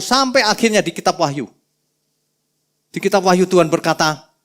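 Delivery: ordinary talk, nothing marked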